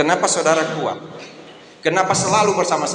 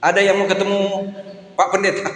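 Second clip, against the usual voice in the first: quick, amused call with a laugh in it; 6 semitones higher, faster than usual. Retold or imitated. Pastor calls his wife about the visitor, laughing. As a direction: call her down while chuckling.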